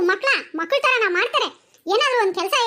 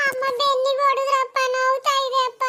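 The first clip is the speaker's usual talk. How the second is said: put-on pained, whiny child's complaint; whimpering. Child tells father about aching back, whimpering. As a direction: whine about the hurt.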